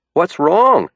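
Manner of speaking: voiced as the diner waitress; Ruth. A narrator's reading. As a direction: ask it up high, alarmed.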